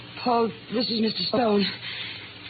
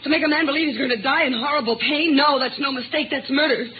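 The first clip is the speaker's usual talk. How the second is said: higher, building accusation; bitter accusation; 4 semitones higher than usual. Acted. Wife accusing the nurse of murdering her husband, bitter and rising. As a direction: hurl the word murder at her.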